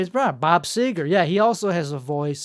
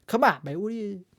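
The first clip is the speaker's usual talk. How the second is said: put-on softer, tentative go at the politician's accent; half-practised impression, lifting higher on the questions; Joe Biden; 4 semitones higher, 4 dB quieter, faster than usual. Practising a Joe Biden impression he is just learning, softly tentative. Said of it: "learning the impression of Joe Biden".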